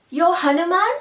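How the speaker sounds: loud, high astonished question; amazed. A narrator's reading. Beam realising the old man is Hanuman, stunned and loud. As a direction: gasp it out in disbelief.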